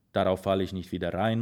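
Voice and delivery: ordinary delivery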